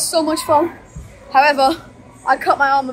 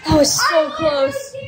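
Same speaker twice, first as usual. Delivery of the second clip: breathless excitement; slower than usual. Real, not acted. Just lost a close race.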